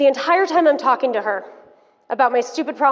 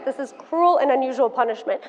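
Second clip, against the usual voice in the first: ordinary talk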